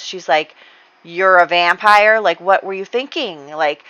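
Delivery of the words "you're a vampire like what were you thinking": shocked disbelief. Retold or imitated. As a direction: play her shock at the news. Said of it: "El Rosario is shocked by this".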